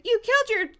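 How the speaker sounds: high, loud, stumbling tirade; furious accusation. Acted. Dina accuses Tracy over murder plot, furious accusation. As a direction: rail at her in hammed-up fury. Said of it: "Her eyes were narrowed with fury".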